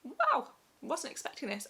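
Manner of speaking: choked up and teary, then a shaky laugh; welling up mid-story, voice wavering; getting emotional. Real, not acted. Recounting shaking in labour, tears rising. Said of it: "I'm getting emotional already".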